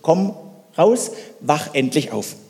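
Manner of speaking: a touch of exasperated scolding; mock scolding. Preacher imagines telling Elisa off, lightly exasperated. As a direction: shake him awake with words. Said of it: "eine runterhauen und sagen".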